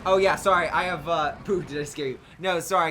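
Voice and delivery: talking through hiccups. Real, not acted. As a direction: hiccups breaking the words. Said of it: "I got the hiccups".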